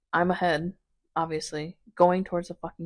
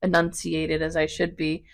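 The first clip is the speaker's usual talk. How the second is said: numb mouth after dental work; talking through a numb mouth; numb from the dentist; 4 dB louder than usual. Real, not acted. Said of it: "my mouth is numb".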